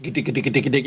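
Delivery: sped-up chopping noise. Retold or imitated. Imitating sped-up cooking videos, rapid chopping patter. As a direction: rattle it off like a knife on a board. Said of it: "it's sped up and they're like".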